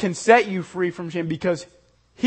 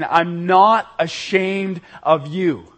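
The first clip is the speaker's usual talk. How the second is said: slow, louder and tender, each word held; loving voice; 5 dB louder, slower than usual. Retold or imitated. Preacher voices Jesus lovingly to the congregation, slowly. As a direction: reassure them gently but firmly. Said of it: "hear his loving voice saying".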